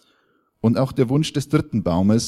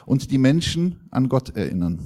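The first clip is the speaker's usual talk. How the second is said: higher-pitched, plaintive complaint; storybook wail, pitched up; wailing lament; 6 semitones higher than usual. Acted. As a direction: lament it with rising longing, then drop at the end. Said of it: "jammerte der Baum".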